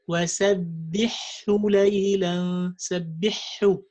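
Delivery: fast وَسَبِّحْهُ, ha swallowed; rushed, ha dropped. Shown as a demonstration. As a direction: hurry سَبِّحْهُ with no ha.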